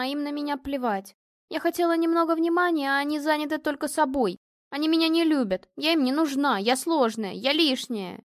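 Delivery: выше и громче, обиженно и зло; детская злая обида на родителей; горестная злая жалоба. A narrator's reading. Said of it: "Горестно и зло жаловалась Вика". (горько и зло жалуется)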